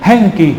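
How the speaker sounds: "Hengki" with an h and ng, falling; Madurese word attempt. Shown as a demonstration. Preacher struggling to repeat Madurese, "Hengki" as careful attempt. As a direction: repeat "Hengki" as a learner, ng before k. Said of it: "susah mengulangnya".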